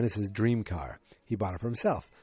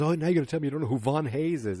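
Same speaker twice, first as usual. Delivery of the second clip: freaking out; 6 semitones higher, faster than usual. Retold or imitated. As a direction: rattle it off like an outraged fan. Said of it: "And he freaks out".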